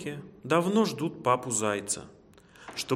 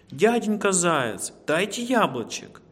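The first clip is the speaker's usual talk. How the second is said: high, loud pleading squeak; squeaking baby squirrels; 7 semitones higher, 5 dB louder than usual. A narrator's reading. Baby squirrels begging the hare for apples, high squeaks. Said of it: "и пищат хором".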